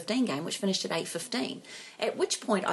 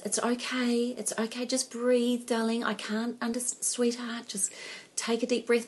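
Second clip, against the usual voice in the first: reassuring a panicking daughter; 4 semitones higher than usual. Retold or imitated. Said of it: "So all I'm doing is".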